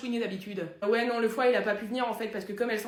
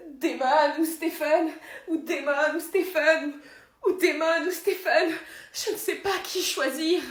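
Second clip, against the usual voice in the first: slow, loud, high lament; melodramatic anguish; 4 semitones higher, 4 dB louder, slower than usual. Acted. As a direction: wail your impossible choice, hammed-up. Parodie d'Elena déchirée entre deux frères.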